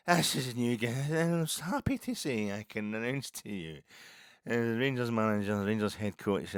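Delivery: plum-voiced club spokesman, pompous; mock club announcer. Club comms man announcing the new head coach, high and stately. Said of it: "he had an accent that kinda indicated".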